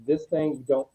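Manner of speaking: retold grave warning, measured and restrained; dead serious. Colleague relaying John's warning about the thing, dead serious. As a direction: imitate a man gravely warning. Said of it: "he was very dead serious".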